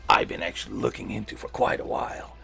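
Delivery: hissing whispered snake voice. Acted. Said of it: "I'll give you the settings and the snake voice".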